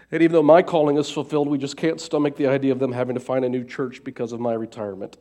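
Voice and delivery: choked up, pushing through tears; tearful, sniffling between words; snotty crying. Real, not acted. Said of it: "sorry about the snot. I'm trying here".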